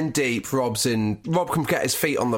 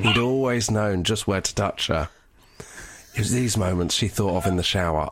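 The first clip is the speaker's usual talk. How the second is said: sultry reading; 4 semitones lower than usual. Acted. Asked to read the sex scene sexier, low sultry voice. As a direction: drop the voice and make it sexy. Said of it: "Be sexier"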